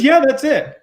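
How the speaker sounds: a high, bright put-on imitation; imitating her. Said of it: "She says".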